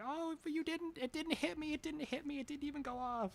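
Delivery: very high, squealed mock protest without extra volume; high-pitched, hammed-up wail; mock scream. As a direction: imitate a panicked player shrieking in disbelief. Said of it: "the person's probably screaming like".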